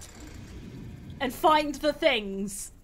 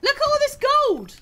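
high, loud disbelief; exasperated exclamation; 11 semitones higher, 4 dB louder than usual. Real, not acted. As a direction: cry out at the unfair find. Exclaims at late gold find.

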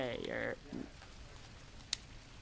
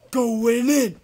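raised-voice "going in"; loud announcement; 2 semitones higher, 5 dB louder than usual. Pretend. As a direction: call it out loudly. Repeats phrase at changing volume.

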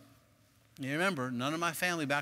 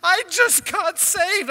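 high, loud mock wail; hammed-up crying voice, drawn out; imitated crying; 11 dB louder, much slower than usual. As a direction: wail it slowly like a tearful wife. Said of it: "And she's crying".

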